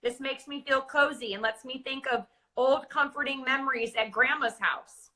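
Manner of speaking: heartfelt, cozy read of a memory; with emotional intensity. Shown as a demonstration. Reading a calming visualization to a co-host, heartfelt. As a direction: let the comfort of grandma's house come through. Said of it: "she added emotional intensity to it".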